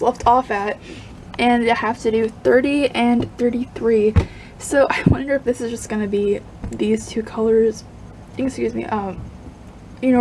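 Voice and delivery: speech broken by hiccups. Real, not acted. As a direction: keep hiccuping mid-sentence. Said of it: "I have the hiccups".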